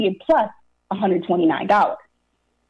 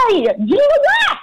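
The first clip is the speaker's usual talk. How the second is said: exasperated why; 3 dB louder, slower than usual. Acted. Exasperated rhetorical question to audience.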